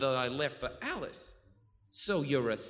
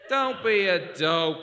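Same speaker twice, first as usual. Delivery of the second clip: scornful snap; 4 semitones higher, 9 dB louder, slower than usual. Acted. Snaps at the captain.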